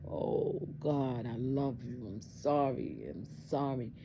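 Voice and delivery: breathy "Oh", then aching remorse; mildly tearful plea, slowing on "sorry"; retold tearful apology. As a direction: pour out love and apology to God. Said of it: "I just cried and cried".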